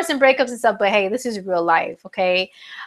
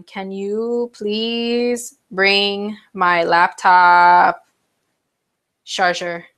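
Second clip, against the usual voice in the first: calling out; much slower than usual. Real, not acted. Calls to husband for charger.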